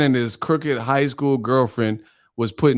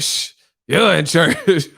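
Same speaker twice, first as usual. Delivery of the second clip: slow mimicking shush, a bit higher; mocking echo; 4 semitones higher, slower than usual. Martin mocking the church lady's voice, mimicking. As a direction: parrot it back mockingly. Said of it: "he would mock the people's voices".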